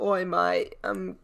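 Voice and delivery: put-on Aussie greeting; Australian accent. Shown as a demonstration. Friend showing how Australians sound, put-on Aussie accent. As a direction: try a broad Australian accent. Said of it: "really awful Australian accent".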